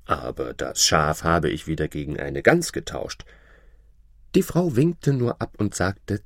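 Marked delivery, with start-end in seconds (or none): 0.1-3.2 low-pitched farmer's admission. Acted. Farmer tells his wife about the goose, low-voiced. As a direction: own up in a low voice. Farmer confesses next trade.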